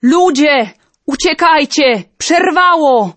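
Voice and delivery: a servant yelling that the dam broke; hoarse shout. Acted. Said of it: "krzyknął schrypniętym głosem".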